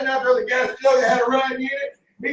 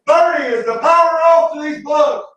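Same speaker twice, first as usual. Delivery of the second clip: half-shouted call from upstairs; retold holler; 5 semitones higher, 3 dB louder than usual. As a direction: call down the stairs, a touch higher. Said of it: "Daddy hollered from up here".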